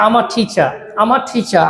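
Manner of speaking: "আমার" said as one linked "am-ah" before "টিচার"; linked collocation. Shown as a demonstration. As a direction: glide through "আমার টিচার" without breaks. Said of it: "collocation করে করে পড়ার চেষ্টা". ("আমার টিচার" জুড়ে একসাথে উচ্চারণ)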